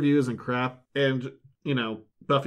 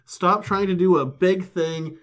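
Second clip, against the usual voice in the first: mock-exasperated Buffy, higher and slower; scolding Buffy; 3 semitones higher, 4 dB louder than usual. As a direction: lightly play Buffy fed up with Andrew. Buffy scolding Andrew in quote.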